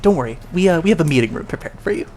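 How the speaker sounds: a slick host hurrying to please; eager receptionist. Acted. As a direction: rush to put the guest at ease. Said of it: "and he's like".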